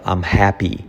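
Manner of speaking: "happy" with a breathed H at the start; aspirated H. Shown as a demonstration. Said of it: "La H, fijaos, aspirada".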